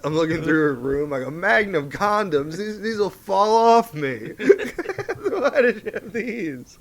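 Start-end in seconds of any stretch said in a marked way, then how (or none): 1.3-4.3 mock dismay. Acted dismayed discovery in room. 4.4-6.8 high, very slow whine; hammed-up distraught question; mock wail. Acted wailing question to ex.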